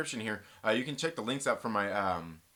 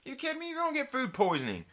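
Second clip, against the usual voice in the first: mocking skeptic; 5 semitones higher than usual. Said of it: "people would be like".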